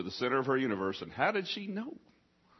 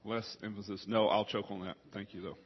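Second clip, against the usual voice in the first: talking quieter; 2 semitones lower, 7 dB quieter than usual. Real, not acted. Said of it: "So I'm gonna talk quieter".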